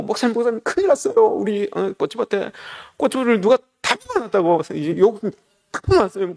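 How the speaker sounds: frantic and pitched high, words tumbling out; a deaconess crying out in panic that the pepper field is ruined; panicked cry. Retold or imitated. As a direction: rush in breathless with alarm. Frantic deaconess running to pastor.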